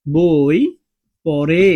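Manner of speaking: slow and loud, leaning on the ending of পড়ে; slow example sentence. Shown as a demonstration. Teacher showing the এ ending to students, slow and loud. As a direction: draw out বই পড়ে so the final এ of পড়ে rings out. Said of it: "দেখো সে".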